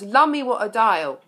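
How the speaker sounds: a playful mock shout of Lummy. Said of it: "The Lord Mayor of London shouts".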